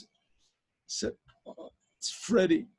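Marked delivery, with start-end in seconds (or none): 1.5-2.7 choked-up mock tearful answer; haltingly, as if fighting tears. Taxi driver explains his tears to the professor, tearful. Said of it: "what were you crying about?".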